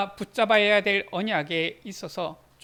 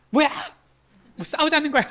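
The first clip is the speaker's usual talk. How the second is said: mock loud retort, higher; 4 semitones higher, 5 dB louder, faster than usual. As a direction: imitate the wife snapping back loudly. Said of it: "바로 큰 목소리로".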